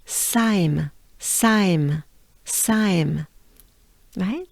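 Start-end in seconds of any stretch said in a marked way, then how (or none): 0.0-3.3 "Saim" as a separate drawn-out syllable, gliding down; final syllable demo. Shown as a demonstration. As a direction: model "Saim" with a falling tune. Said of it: "And then we end with".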